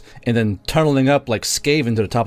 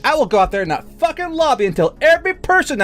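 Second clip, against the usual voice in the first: retold furious threat; 13 semitones higher than usual. Baker threatening to tell every customer, high and furious. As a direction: rant it at the boss. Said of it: "I was like".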